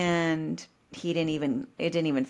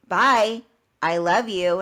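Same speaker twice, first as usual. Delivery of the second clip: husband's loud goodbye; 6 dB louder, slower than usual. Retold or imitated. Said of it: "And he goes".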